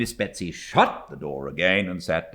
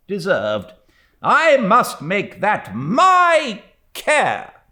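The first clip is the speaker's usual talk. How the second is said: loud, higher, measured declaration; solemn old aunt; 13 semitones higher, 8 dB louder than usual. A narrator's reading. Stern aunt vowing to the widow, solemn and firm. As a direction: vow it like a solemn duty. Miss Betsy declaring intentions.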